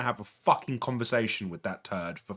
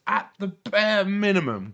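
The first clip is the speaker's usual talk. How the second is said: ordinary talk, nothing marked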